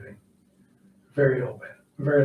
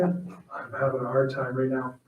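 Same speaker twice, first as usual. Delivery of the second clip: holding back tears; 3 dB quieter than usual. Real, not acted. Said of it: "I'm holding back the tears".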